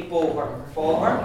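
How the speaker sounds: boher with a closed O, as said down south. Shown as a demonstration. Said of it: "Down south it would be".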